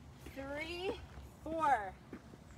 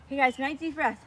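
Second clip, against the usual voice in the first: calling out loudly; 9 dB louder than usual. Real, not acted. Coach calling out to walkers.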